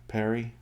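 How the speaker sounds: Perry said PAIR-ee, short e first; another pronunciation guess. Shown as a demonstration. Reader guessing how the England-based author says it, tentative Perry as PAIR-ee. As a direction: try Perry to rhyme with berry. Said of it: "she teaches in England".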